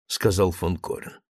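ordinary delivery, nothing marked

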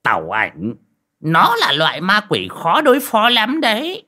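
put-on high, strained voice of a gossipy old man; nosy old man. Đồng butting in to explain, high and strained. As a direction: crane in and chime in eagerly. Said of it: "nghẹn cổ hóng hớt".

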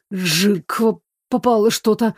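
choked, hoarse voice failing him; hoarse wheeze. Acted. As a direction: force the words through a tight throat. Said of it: "просипел он, голос не слушался".

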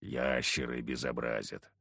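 low, slow grumble; surly hunter grumbles; grumbled. Acted. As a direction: mutter it low and curt. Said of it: "буркнул Харисим".

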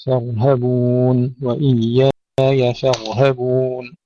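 slow, drawn-out recitation, thick R in فارهبون; thin F, heavy R, thin H in فارهبون; light fa, heavy ra. Shown as a demonstration. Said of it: "ترقيق الفاء وتفخيم الراء ثم ترقيق الهاء".

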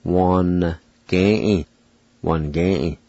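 Wan-ge-e said with the I after the N dropped; silent i. Shown as a demonstration. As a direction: drop the I: Wan-ge-e. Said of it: "it'll be pronounced like this".

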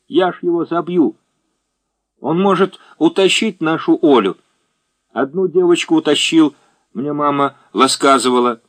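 ребёнок картавит, «л» вместо «р»; детский голос, картаво. A narrator's reading. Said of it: "забавно картавя". (картавый детский говор)

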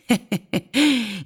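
high thin put-on laugh; squeaky servile titter; fawning cackle. A narrator's reading. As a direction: cackle along to flatter the boss. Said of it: "Закатился мистер Брас".

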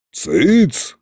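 sharp mock roar of a tyrant king; yelling king. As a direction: bark it out like a tyrant. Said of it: "заорал царь-батюшка". (заорал как грозный царь)

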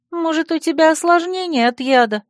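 high, concerned question; worried friend. Acted. Friend wonders if poison affected the heroine, worriedly. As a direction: ask it anxiously in a high voice.

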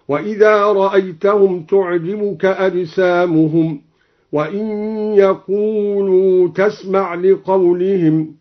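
"خشب" with silent shin, khushb; Quranic recitation. Shown as a demonstration. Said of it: "سكن الشين". ("خشْب" بتسكين الشين)

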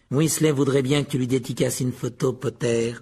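mildly mocking jibe; ironic. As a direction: needle him with light irony. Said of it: "ironisa Malfoy". (pique ironique et moqueuse)

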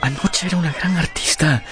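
a scornful chuckle of disbelief; bitter laugh. Acted. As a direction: laugh at the memory of last night. Dorian bitter at Sybil's failure.

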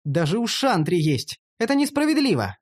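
aggrieved high-pitched exclamation; indignant complaint. Acted. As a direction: protest rising to a high pitch. Protests the unfair quest share.

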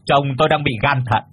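high, fast, accusing mother's voice; indignant scolding. Acted. Mother scolds suitor for bringing liquor, high indignant scolding. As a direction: snap at the young man, outraged.

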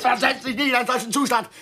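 fast, sneering parrot of the words; mocking echo. Mimicking the friend's advice with quick mockery. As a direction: throw the phrase back at her.

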